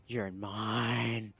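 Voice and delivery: low, soft menacing whisper. Acted. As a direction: breathe it into the goblin's ear. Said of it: "grab the back of his head and whisper".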